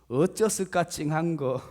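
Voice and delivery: put-on Jeolla exclamation; imitated Jeolla lilt; Jeolla dialect. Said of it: "전라도 버전이더라고요".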